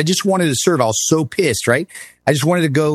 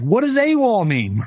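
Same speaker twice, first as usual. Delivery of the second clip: baffled high question; 10 semitones higher than usual. Retold or imitated. Confused recruit asking the sergeant.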